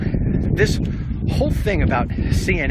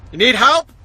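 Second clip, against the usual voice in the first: mock ominous reply; menacing comeback; 7 semitones higher, 4 dB louder than usual. Imagined neighbour exchange.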